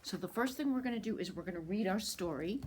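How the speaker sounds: hushed, quick whisper; soft storytime whisper. Real, not acted. Librarian whispering to start.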